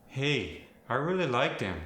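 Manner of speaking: Fargo accent, "them" said as "dem". Shown as a demonstration. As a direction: rural Minnesotan with D for TH. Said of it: "that become D words".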